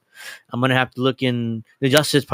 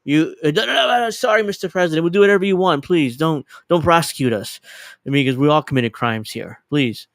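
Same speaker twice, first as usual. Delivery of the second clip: high, pleading, hammed-up panic; mock panicked begging; 3 semitones higher than usual. Oligarch begging the president not to prosecute, mock panic. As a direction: grovel like a terrified oligarch.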